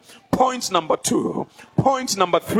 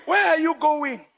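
forceful rebuke; 8 semitones higher, slower than usual. Real, not acted. Preacher rebukes a member for leaving, forceful. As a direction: call them back, hard.

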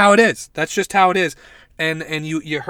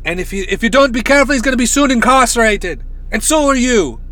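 raised, hammed-up Irish psychic accent; Miss Cleo; 5 semitones higher, faster than usual. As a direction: warn like a badly faked Irish psychic. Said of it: "That's the Irish Miss Cle".

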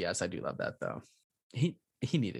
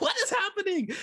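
much higher, stunned retold question; mock shock. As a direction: play it wide-eyed and baffled. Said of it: "I was like".

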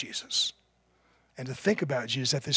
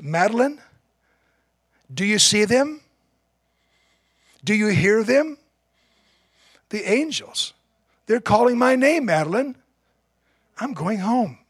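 higher and louder, wonderstruck calling to his wife; a dying man seeing angels, caught up in it; awed dying man; 6 semitones higher, 5 dB louder than usual. Retold or imitated. Dying Templeton calls to his wife Madeline, awed and raised.

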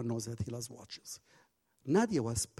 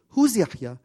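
higher, louder asking voice; curious teacher; 7 semitones higher, 11 dB louder than usual. Retold or imitated. Nadia asking Mark who Yahya is, high curious. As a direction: ask it brightly, curious. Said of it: "She said".

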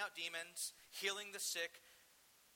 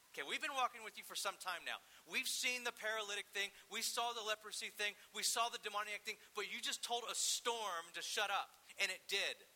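raised, insistent disbelief building in force; incredulous disciples; 3 semitones higher than usual. Retold or imitated. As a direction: pile up the evidence in mock astonishment. Disciples confront Jesus after storm.

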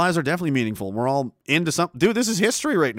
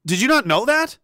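mocking scorn; 5 semitones higher than usual. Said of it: "I was like".

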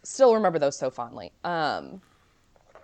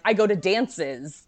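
mock Martin; much slower than usual. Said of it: "him being like".

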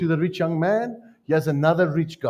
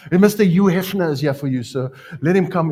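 security guard; 3 semitones higher, 5 dB louder than usual. Retold or imitated. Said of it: "I always joke".

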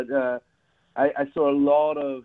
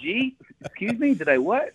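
higher mock Texas drawl, a light put-on; Texas Southern drawl; 10 semitones higher than usual. Shown as a demonstration. Englishman shows off his American accent to the host, mock Texas drawl. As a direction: tip your hat and greet her in a playful Texas drawl. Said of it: "I can do American if you need me to".

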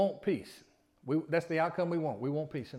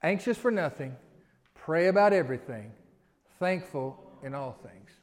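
louder, leading the congregation aloud; call and response; 6 dB louder than usual. Shown as a demonstration. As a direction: lead the congregation through it together. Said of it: "Can you say it with me?".

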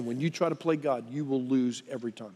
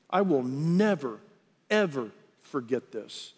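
retold grim vow. Voices a vengeful vow.

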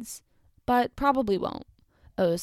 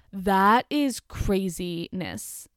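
drawn-out disbelief; 4 dB louder, much slower than usual. Real, not acted. Reacting in disbelief.

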